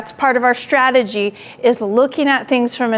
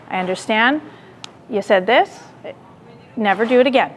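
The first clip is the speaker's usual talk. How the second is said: calm and firm; 2 semitones lower than usual. Retold or imitated. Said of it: "take a deep breath, and I go".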